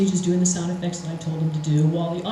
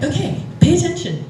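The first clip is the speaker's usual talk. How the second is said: higher and louder urging; urgent prompt; 8 semitones higher, 5 dB louder than usual. Retold or imitated. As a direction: push her to focus now. Urging her to focus.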